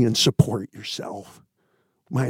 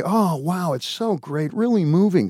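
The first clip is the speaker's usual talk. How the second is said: higher, singsong fake praise; mock gushing; 5 semitones higher than usual. Critic who prefers the yay, mock gushing. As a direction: gush as an easily pleased fan.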